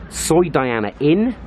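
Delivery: DIANA INN in full, rising on INN; full name, Diana Inn. Shown as a demonstration. Vlogger listing a street's names, full name Diana Inn, rising. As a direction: say Soi Diana Inn in full, slowly, lifting INN. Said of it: "people pronounce it different ways".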